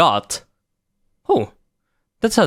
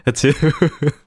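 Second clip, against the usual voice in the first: sneezing; 2 semitones higher than usual. Retold or imitated. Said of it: "That is one pathetic sneeze".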